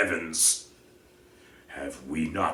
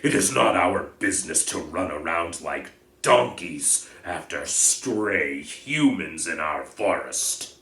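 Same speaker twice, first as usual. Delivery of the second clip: loud, contemptuous, scoffing centaur; angry outburst; 11 dB louder than usual. Acted. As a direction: spit out his scorn, much louder. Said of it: "Bane kicked up his back legs in anger".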